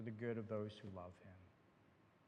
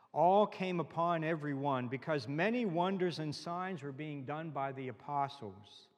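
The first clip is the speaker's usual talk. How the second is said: scripture reading; 2 semitones higher, 5 dB louder than usual. Acted. Pastor reading Acts to the congregation, emphatic scripture reading. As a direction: proclaim the verse emphatically.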